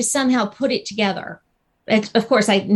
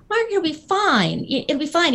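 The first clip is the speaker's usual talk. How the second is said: high, dismissive reassurance; retold breezy reassurance; 6 semitones higher than usual. Retelling how she brushed off Mark's worry, lightly reassuring. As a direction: wave the worry away, pitched up. Reassures worried Mark in her story.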